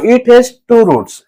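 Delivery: slow, steady statement of the fact. Shown as a demonstration. Teacher telling students the rule, said slowly. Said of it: "teacher states then dictates fact".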